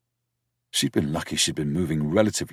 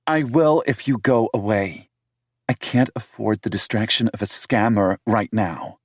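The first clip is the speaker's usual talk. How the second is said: higher voice for the city woman, indignant; higher-pitched female character, accusing; 5 semitones higher, 4 dB louder than usual. A narrator's reading.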